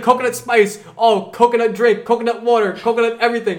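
high, lightly mocking bro voice; frat bro. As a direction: mimic his coconut obsession. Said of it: "He's like".

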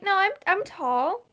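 put-on high, stammered little-girl protest; offended kid straightening up; mildly offended. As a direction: insist in a high, slightly affronted child voice. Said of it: "She's kind of a little offended".

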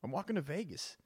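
breezily lie about walking to Vegas; mock excuse. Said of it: "and be like".

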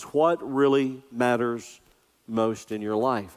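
drawn out slowly, each word weighed; slow it right down so it sinks in; a slow, deliberate question for the congregation to ponder; slow, weighty question. Shown as a demonstration. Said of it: "the question that I really want you to ponder".

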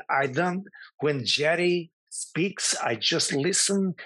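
put-on lightly done Eastern European accent, hesitant; playing the confused foreigner in a mild fake accent; Milos accent. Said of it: "I did talk Milos all week".

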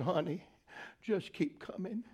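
gentle encouragement. Retold or imitated. Retold wife gently encouraging.

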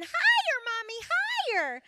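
put-on high, loud child's call; excited child calling. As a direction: cry out like a kid on a swing.

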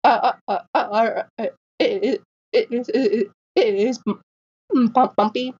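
laughing through a mock stutter; hammed-up stammer on every word; exaggerated stuttering. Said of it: "And she's like".

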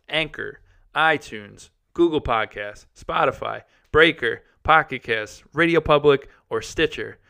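rattled off in one breath; all in one breath. Shown as a demonstration. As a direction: list them without pausing. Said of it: "I'm out of breath because of all these podcast services".

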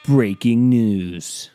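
hammed-up news anchor; announcer shout. Shown as a demonstration. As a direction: belt it like a breaking news alert. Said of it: "We have".

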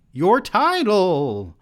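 high, loud, stretched-out cry; slow theatrical yell; yelled demand. A narrator's reading. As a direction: cut in with a shrieked demand. She cuts him off, yelling.

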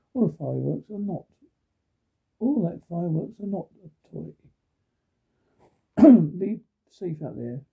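bright, upbeat radio host read; radio announcer. Acted. Local radio host to listeners, upbeat announcer read. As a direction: sell the holiday forecast like a local DJ.

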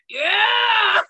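high, loud drawn-out cheer; Gimli. Retold or imitated. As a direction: shout it like an eager battle cry. Imitating Gimli's battle cry.

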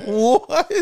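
high, loud drawn-out exclamation; amazed friends. Retold or imitated. Friends learn the weed came from Jamaica, amazed shout. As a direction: act out astonished excitement.

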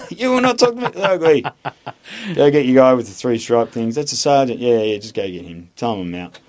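high, loud put-on voice; mock defiant recruit. Cheeky mate talking back to the yelling instructor, high mock voice.

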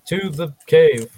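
loud showman announcing the climb; mock announcer. Player announcing his climb to the group, mock grand announcer. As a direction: hype it like a ringmaster. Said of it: "mock announcement before climbing".

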